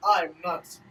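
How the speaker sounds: lightly voiced theatrical rival, mock-gracious; slighted rival. Rival chiding the Nightwings, lightly theatrical mock-gracious voice. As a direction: play a wounded, condescending rival.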